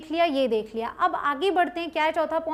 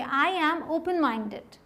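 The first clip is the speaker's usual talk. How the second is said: slow model sentence; much slower than usual. Shown as a demonstration. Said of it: "क्या use करना है देखिए".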